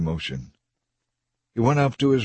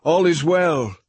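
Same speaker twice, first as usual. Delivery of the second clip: calling out higher, with joy; crying out; 8 semitones higher, slower than usual. A narrator's reading. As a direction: call up to the king, high and bright. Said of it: "Ahimaaz cried out to the king".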